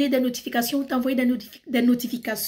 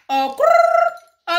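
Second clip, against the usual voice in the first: sudden very high squeaky throat crack, much louder; dry throat cracking mid-sentence; 8 dB louder than usual. Real, not acted. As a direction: voice breaks into a loud squeak. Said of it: "ok, let me take some water".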